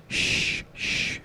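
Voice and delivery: whispered shush; a doctor hushing a frightened girl, whispered. Retold or imitated. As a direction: hush her in a whisper. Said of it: "He's trying to be, get her to be quiet".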